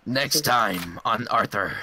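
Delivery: slow next-episode teaser; unhurried parody announcer; mock promo announcer. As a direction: drawl it like a TV promo.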